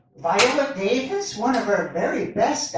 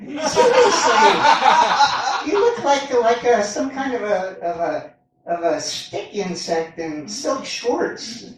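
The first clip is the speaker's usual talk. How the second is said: mock insult; 4 dB louder than usual. People mocking his looks.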